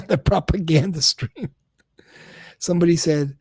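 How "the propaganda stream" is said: amused repeat with a laugh. Real, not acted. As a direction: laugh it out, mocking the phrase.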